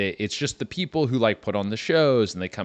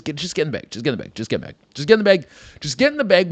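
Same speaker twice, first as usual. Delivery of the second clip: mock urging; 5 semitones higher, much faster than usual. Guy urging woman into luggage.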